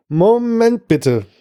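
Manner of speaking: vomiting hitman chokes out a request to wait, retching; retching words. A narrator's reading. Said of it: "würgte ich zwischen zwei Schüben hervor".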